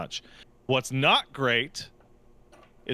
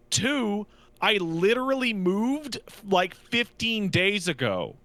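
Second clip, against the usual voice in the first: frustrated rant; 4 semitones higher than usual. Retold or imitated.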